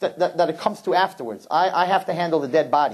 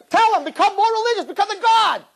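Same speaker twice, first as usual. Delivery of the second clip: high mock advice; 3 dB louder than usual. Rabbi voices his advice.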